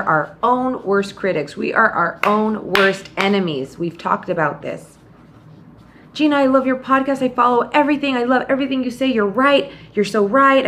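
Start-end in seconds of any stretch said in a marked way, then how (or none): 6.1-10.7 lightly voiced gushing fan, higher. Listener praising her podcast, lightly voiced gushing fan. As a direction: play the eager listener praising her, pitched up.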